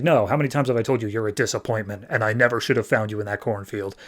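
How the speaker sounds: fast, understated disapproving father; quick, mildly harsh put-down; retold cold rejection. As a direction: lightly imitate a father coldly disowning his son. Twisted memory of father rejecting son.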